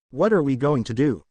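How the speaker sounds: flat, even monotone voice. Acted. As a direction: say it with no inflection. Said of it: "said a monotone voice".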